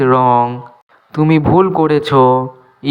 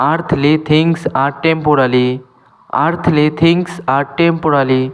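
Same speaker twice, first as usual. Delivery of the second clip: slow, clear English for learners; careful dictation pace; slow teaching demo; much slower than usual. Shown as a demonstration. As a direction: spell each word out slowly for students. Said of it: "teacher repeats example slowly".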